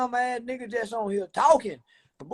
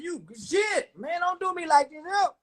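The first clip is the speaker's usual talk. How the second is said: mock pleading shout; 6 semitones higher than usual. Streamer begging smart viewers to leave him alone, mock shouted plea. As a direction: yell it like a hammed-up complaint.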